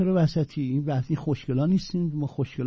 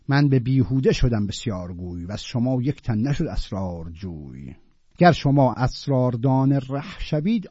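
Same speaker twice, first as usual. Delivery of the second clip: louder opening, slowing and softening recital; declaim, then let it fade; poem recitation; 3 dB louder than usual. Acted. Teacher reciting Attar to students, fading recital.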